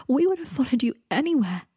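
high, tearful devotion; weeping. A narrator's reading. Greg tells Draco how they followed him, weeping. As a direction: plead it through acted tears. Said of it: "wept Greg".

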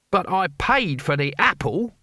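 mildly irritated protest; testy. A narrator's reading. Cohen defending himself to the teacher, testy. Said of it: "said Cohen rather testily".

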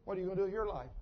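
quiet voice of God; God's voice. Retold or imitated. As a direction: speak softly as the Lord calling someone. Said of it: "the Lord speaks to Isaiah in an audible voice".

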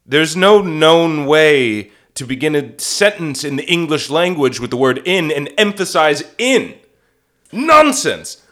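put-on booming scornful old actor; pompous Orson Welles. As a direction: sweep the director aside grandly.

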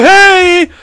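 sudden loud, high goofy hey; over-the-top put-on character. Switching into the act as she appears, loud high put-on voice. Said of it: "I would just go straight into it".

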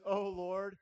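a loud, desperate call to heaven; anguished cry. Acted. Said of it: "there's some anguish in that".

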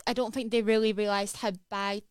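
normal talking voice

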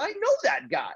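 excited exclaim. Retold or imitated. Recalls his first goal call.

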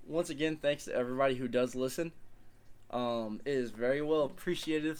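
words blurred by a guitar pick; mouth full. Real, not acted. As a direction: talk round something in your mouth. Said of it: "you sound like you were struggling".

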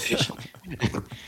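high cracking laugh; a squeaky laugh that breaks. Real, not acted. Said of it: "giant voice crack".

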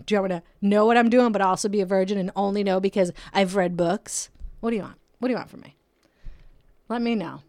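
fed-up venting at a confusing guy; mock frustrated outburst; exasperated rant.

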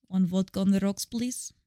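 mock Russian spy voice; Russian spy accent. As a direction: play a Russian spy ordering a drink. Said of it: "I'm a Russian spy walking into a bar".

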